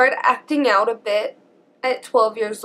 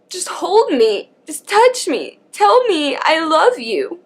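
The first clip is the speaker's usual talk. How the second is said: begging; 3 semitones higher than usual. Retold or imitated. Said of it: "just begging her".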